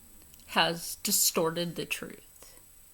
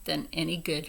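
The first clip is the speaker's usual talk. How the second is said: angry retort. Retold or imitated. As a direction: lean hard into fucking mask. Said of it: "And I'm like".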